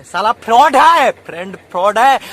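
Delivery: scornful outburst. Acted. Preacher denounces friends.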